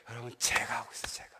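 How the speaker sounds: hushed, breathy admission; whispered confession. Real, not acted. Preacher admitting to the congregation that he did it, whispered. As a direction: whisper it like a shameful secret.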